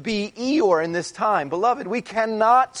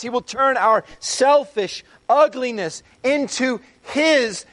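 louder, higher, rising fervour; preaching at full force; 5 semitones higher, 4 dB louder than usual. Acted. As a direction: drive the promise home to the congregation. Preaching the gospel's hope.

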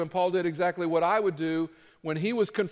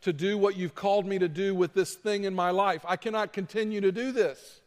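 higher, halting, stammering plea; desperate pleading prayer; 3 semitones higher than usual. Retold or imitated. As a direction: beg God as if at the end of your rope. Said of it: "just started pleading with God".

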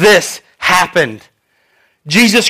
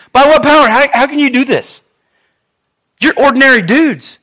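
mock indignant interrogation, pitched up; challenging questioning; 5 semitones higher than usual. Rulers challenge the two disciples, indignant. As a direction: demand it like a rattled official.

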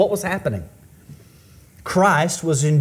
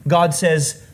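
ordinary talk, nothing marked

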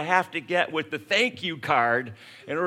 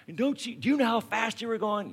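higher, stern lecturing police officer; fuming cop; 7 semitones higher, faster than usual. Retold or imitated. Cop scolding a speeding driver, stern and higher.

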